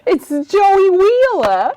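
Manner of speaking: laughing through the words; slow, high, laughing. Real, not acted. Laughing over the accident.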